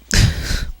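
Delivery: a soft, breathless choked-back sob; catching a sob before it breaks. Real, not acted. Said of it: "I'm about to cry".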